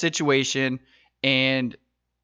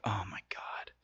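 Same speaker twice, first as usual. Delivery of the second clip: breathy hushed whisper, much softer; whispered Oh my God; 7 semitones lower, 18 dB quieter than usual. Retold or imitated. Spotting a maga hat, a dismayed whisper. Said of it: "I'm like".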